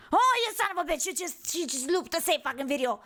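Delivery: real exasperated yell at the screen; furious at a looped video; outraged cursing. Real, not acted.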